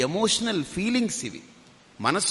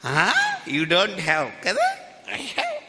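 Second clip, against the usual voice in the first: put-on a little boy delighted at your envy; taunting child voice; gloating child; 3 semitones higher, much slower than usual. Child gloating over the swami.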